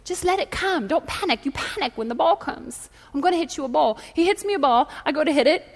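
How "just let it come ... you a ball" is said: soft, lightly Scottish coaching voice; mild mock-Scottish instructions. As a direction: coach gently with a hint of Scottish. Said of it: "he's Scottish, and his voice is kind of like this".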